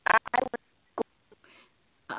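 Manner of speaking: slow, fading phone signal; words dropping out on the line; crackly cordless phone. Real, not acted. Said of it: "it's fading in and out again".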